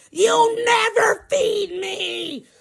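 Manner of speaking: very slow, high mock wail; child snapping. Girl snapping at the driver over food, imitated wail. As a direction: drag out an acted tantrum scream. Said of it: "She fucking snapping on me".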